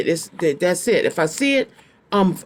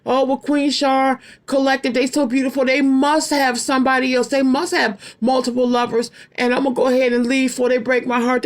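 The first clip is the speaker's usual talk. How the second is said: voicing the ex's thoughts; 5 semitones higher than usual. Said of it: "They made an excuse in their mind".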